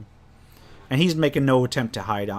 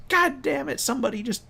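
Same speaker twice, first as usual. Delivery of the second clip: high-pitched acted outrage; hammed-up high cry of annoyance; mock angry yell. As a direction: yelp in indignation, pitched way up. Half ogre set on fire, yelling.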